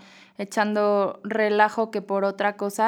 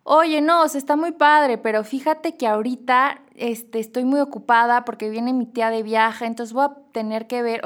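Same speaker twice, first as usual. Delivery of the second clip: sugarcoated excuse. Retold or imitated. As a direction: soften the no with a gushing excuse. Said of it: "Vas a decir".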